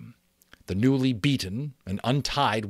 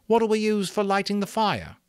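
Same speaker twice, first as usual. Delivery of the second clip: put-on much higher, louder boy's question; Bill asking; 13 semitones higher, 6 dB louder than usual. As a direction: ask the awkward question plainly. Bill asks the chief.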